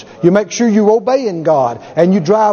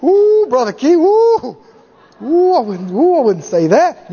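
hammed-up fearful warning; mock scared churchgoer; 3 semitones higher than usual. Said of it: "People say".

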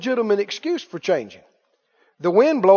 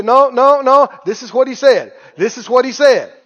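firm declaration; 5 dB louder than usual. Retold or imitated. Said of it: "you just say".

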